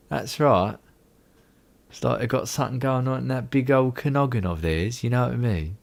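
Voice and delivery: playful, put-on British voice; hammed-up British chat; bad British accent. Shown as a demonstration. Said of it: "That's the worst British accent".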